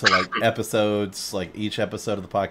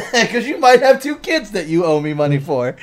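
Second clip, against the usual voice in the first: very high, loud yelling tirade; raging Frank; 14 semitones higher, 14 dB louder than usual. Retold or imitated. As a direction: storm up and accuse the whole room. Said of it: "He's like".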